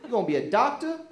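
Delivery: loud, high mocking scold; mother yelling at her son; scolding mom. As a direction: tear into the kid like a fed-up mother. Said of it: "She'd be like".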